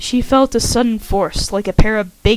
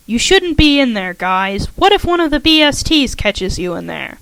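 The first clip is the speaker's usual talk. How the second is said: loud, raised voice calling out; 3 semitones higher, 5 dB louder than usual. Acted. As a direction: call out to someone hiding. Calling out to hidden pranksters.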